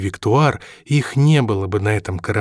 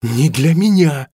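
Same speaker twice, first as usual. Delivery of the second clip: slow, higher, firm retort; sudden anger; 5 semitones higher, 4 dB louder, slower than usual. A narrator's reading. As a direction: flare up and bite each word. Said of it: "Робин внезапно разозлился".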